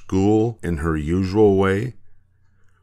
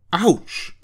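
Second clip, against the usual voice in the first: pained holler; 11 semitones higher than usual. Acted. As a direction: yelp as if your hair were pulled. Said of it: "hollered Maisie".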